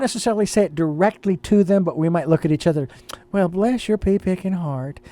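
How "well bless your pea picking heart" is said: Southern accent. Shown as a demonstration. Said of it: "you take on a little Southern accent".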